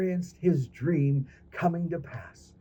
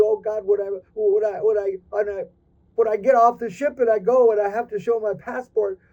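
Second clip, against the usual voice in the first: desperate crab; 5 semitones higher, 4 dB louder than usual. Acted. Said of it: "He said".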